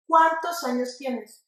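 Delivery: slow model question, "Cuántos" stressed on CUÁN. Shown as a demonstration. Teacher modelling for students at home, stressed "Cuántos". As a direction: draw out the first syllable of "Cuántos". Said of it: "suena en donde lleva la sílaba tónica".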